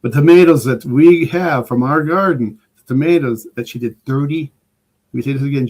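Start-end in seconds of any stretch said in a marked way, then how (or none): 0.0-4.5 mock Italian accent with louder swells; horrible Italian accent. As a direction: lay on a lame Italian accent. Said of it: "that really horrible Italian accent".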